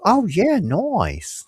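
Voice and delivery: "nice" said as "noice", high on "yeah"; imitating her nice. Retelling the friend's "nice" as "noice". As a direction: turn "nice" into a drawn "noice". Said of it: "she goes".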